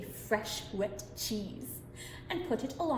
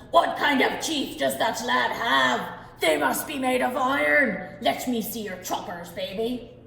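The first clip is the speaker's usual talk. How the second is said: amazed giant; 6 dB louder than usual. Acted.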